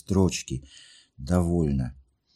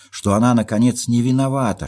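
higher, louder anguished plea; anguished outcry; 7 semitones higher, 6 dB louder than usual. Acted. Jilted girl insists to narrator she is blameless, higher, louder cry. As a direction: cry out her innocence. Nastenka's pleading peak.

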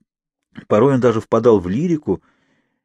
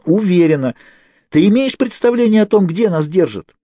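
high, loud pressing questions; shouting questions; 8 semitones higher, 3 dB louder than usual. A narrator's reading. Kate shouting to Naomi about where they are held. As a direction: push her to answer.

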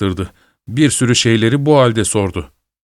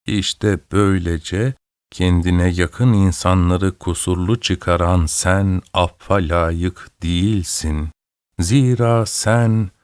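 put-on slow, lower, quavering old woman reading scripture; trembling old woman's voice; 4 semitones lower, slower than usual. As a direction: read the Bible like a frail old woman, slowly. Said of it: "titrek sesiyle çınladı".

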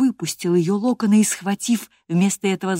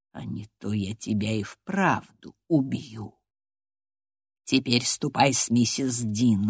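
feigned calm; 5 semitones lower than usual. A narrator's reading. Heathcliff warns Catherine after his rage, with forced calm. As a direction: start near a whisper, deliberately controlled. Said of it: "сказал с напускным спокойствием".

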